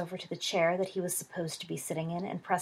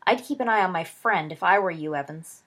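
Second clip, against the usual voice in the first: louder warning called over shoulder; calling back; 7 dB louder than usual. Acted. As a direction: call back loudly, pointed. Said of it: "he called back over his shoulder".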